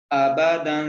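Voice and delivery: अबदन with the final n hidden, half-nasal and chanted; ikhfa on the noon. Shown as a demonstration. Teacher shows students the ikhfa in अबदन, nasal hidden n. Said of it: "तो हमने यहाँ पे इख्फा करना है".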